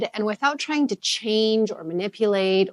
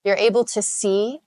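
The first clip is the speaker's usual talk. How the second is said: calm, unhurried meditation guide; measured, soothing instruction, phrase by phrase; guided meditation. Real, not acted. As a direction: ease listeners into stillness with lingering pauses. Leads a guided meditation practice.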